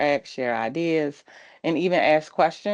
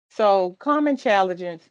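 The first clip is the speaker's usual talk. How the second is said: talking around a retainer; slightly lisped retainer speech; wearing a retainer; 3 semitones higher than usual. Real, not acted. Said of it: "I have re-, uh, a retainer".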